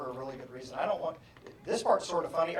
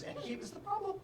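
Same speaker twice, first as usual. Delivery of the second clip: mother accusing; 8 dB quieter than usual. Retold or imitated. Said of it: "and she goes".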